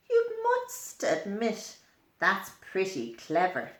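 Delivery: a hint of a proud little ant, chatty; cheerful ant boasting to the listener; lightly voiced ant. Reading to a child, a lightly voiced ant boasting.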